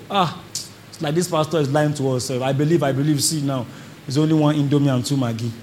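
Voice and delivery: low, deflated muttering to oneself; mild mock dejection. Believer facing a bare cupboard at home, mildly dejected.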